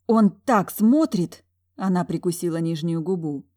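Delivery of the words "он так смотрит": drawn-out complaint. Acted. Talya complains of his gaze.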